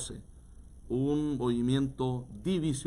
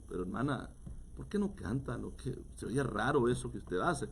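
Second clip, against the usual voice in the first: gentle, much softer correction; softer rebuke; 6 dB quieter than usual. Retold or imitated. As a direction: chide her quietly. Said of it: "Y le digo". (reproche suave y bajo)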